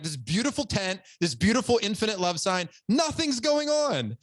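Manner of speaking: puzzled at an empty, beautiful tent; mock disbelief. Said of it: "Literally, I'm like".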